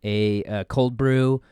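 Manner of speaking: slightly low, everyday coffee-ordering voice; understated, unhurried natural voice; normal voice. Shown as a demonstration. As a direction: order casually in your natural register. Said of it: "order a meal in your normal voice".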